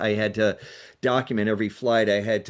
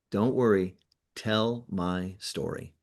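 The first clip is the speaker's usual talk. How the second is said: calm reassurance; 4 semitones lower, 4 dB quieter, slower than usual. Retold or imitated. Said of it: "And he said three words".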